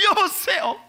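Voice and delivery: angry car owner. Retold or imitated. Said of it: "막 화를 내니까".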